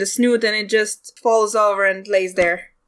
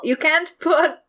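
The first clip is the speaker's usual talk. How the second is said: exasperated; 4 semitones higher, slower than usual. Acted. GM mock exasperation.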